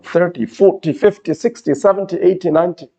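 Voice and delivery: each number from "Thirty" to "ninety" stressed on its first syllable. Shown as a demonstration. Teacher listing numbers ending in zero, "Thirty" to "ninety" stressed up front. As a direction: list "Thirty, forty, fifty" onward, punching each opening syllable. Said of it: "stress the first syllable".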